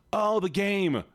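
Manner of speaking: high gasping realisation; sudden surprise. Real, not acted. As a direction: gasp and remember suddenly.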